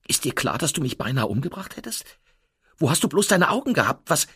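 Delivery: laut, höher, immer schneller anklagend; wütender Vorwurf. A narrator's reading. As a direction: schrei den Fahrer zornig an. Wütende Anklage an den Fahrer. (zornig und laut, sich steigernd)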